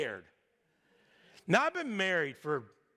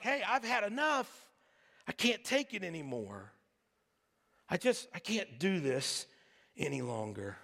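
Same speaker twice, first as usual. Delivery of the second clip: weary despair; 3 semitones lower than usual. Retold or imitated. Elijah worn out under tree.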